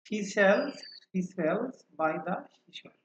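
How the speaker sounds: words linked in measured phrases. Shown as a demonstration. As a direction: say it connected, sounds kept distinct. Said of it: "আমরা একটু দ্রুত উচ্চারণ করি".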